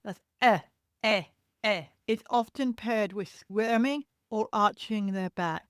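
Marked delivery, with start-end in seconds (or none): 0.4-1.8 short sharp "eh, eh, eh"; mild imitated fussy cry; discomfort cry sound. Shown as a demonstration. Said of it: "here's a discomfort cry".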